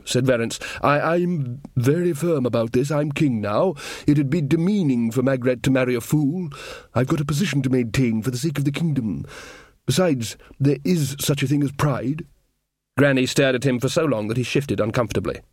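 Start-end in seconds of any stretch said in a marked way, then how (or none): 0.8-12.2 lightly voiced, stammering insistent king; earnest young king. King refusing the fool's costume, mildly indignant. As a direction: protest with a touch of wounded dignity. Verence protests to Granny.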